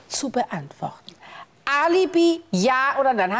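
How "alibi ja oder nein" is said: sharp demand. Acted. Judge pressing the witness for a clear answer, sharp. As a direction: slam the word Alibi down as a demand.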